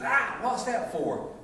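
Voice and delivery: high, drawn-out startled yelp; mock surprised cry. Husband startled by his wife's frying pan, high yelp. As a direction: play the stunned husband, slow and high.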